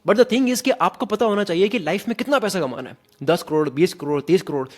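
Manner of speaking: confident, owned delivery; with conviction. Shown as a demonstration. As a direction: say it like you truly mean it. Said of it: "मेरे को खुद को भी पता है मैं क्या बोल रहा हूँ".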